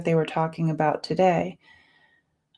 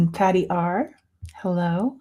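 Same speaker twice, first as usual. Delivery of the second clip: frog in throat. Real, not acted. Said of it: "I got a frog in my throat".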